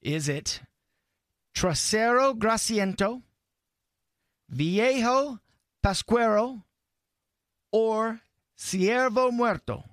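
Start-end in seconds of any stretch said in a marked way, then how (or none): 1.6-9.8 hammed-up quiz reading.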